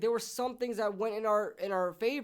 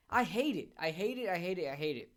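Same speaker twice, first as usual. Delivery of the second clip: fading disgust. Real, not acted. Repeated complaint trailing off.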